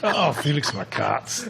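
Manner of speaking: put-on very slow Scottish accent; mock Scottish accent. Pundit recalling the joke name, in a slow Scottish accent. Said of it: "do it in a Scottish accent".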